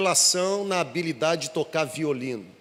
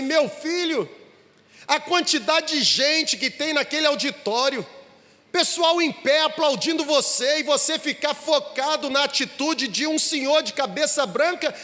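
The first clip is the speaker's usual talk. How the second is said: higher and raised, nearly shouting; exasperated father; 7 semitones higher than usual. A narrator's reading. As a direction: push the boy to forget the one man. Father urges son to ignore critic.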